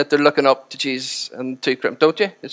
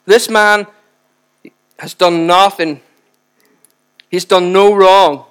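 aggressive rebuke; 2 semitones higher, 5 dB louder, slower than usual. Retold or imitated. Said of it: "He says".

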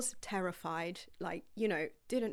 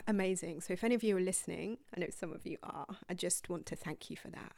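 moved; faster than usual. Real, not acted. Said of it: "I'm feeling quite emotional actually".

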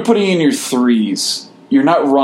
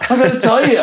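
put-on Boston accent; 13 semitones higher, faster than usual. Boston accent bit returns.

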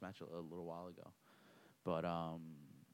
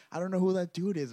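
much higher mock bewildered voice; imitating bewildered opponent; 11 semitones higher, 8 dB louder than usual. Opponent telling the ref he doesn't know the guy, high mock voice. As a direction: play the baffled competitor. Retold opponent disowning coach.

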